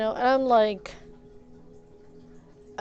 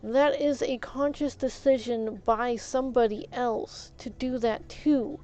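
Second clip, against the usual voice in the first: slow, raised-pitch, deliberate insistence; emphatic refusal; 3 semitones higher, slower than usual. Retold or imitated. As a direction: shut it down one phrase at a time. Emphatic rejection of victim blaming.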